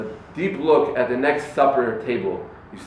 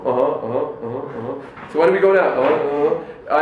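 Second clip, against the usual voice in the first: mock distracted uh-huh. Mocking distracted phone user.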